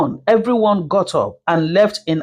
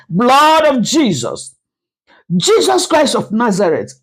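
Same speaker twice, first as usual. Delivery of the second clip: shocked shout; 4 semitones higher than usual. Acted. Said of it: "shouted and said".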